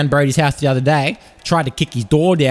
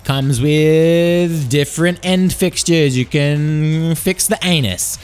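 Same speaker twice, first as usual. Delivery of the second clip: mock ad read; slower than usual. Reads a sponsor ad.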